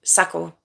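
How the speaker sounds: Shakur opening on a plain 's', as 'Sakur'; Shakur without the H. Shown as a demonstration. Practising his surname, Shakur said as 'Sakur'. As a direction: say Shakur with 's' instead of 'sh'. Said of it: "It's without the H".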